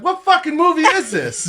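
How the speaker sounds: high, laughing shocked question; half-laughing, shocked; laughing disbelief. Retold or imitated. Asking mom about the movie.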